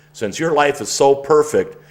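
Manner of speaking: dry mocking jab at a know-it-all; sarcastic cousin scoffing at the life coach plan. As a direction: needle him with sarcasm. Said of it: "cut the sarcasm".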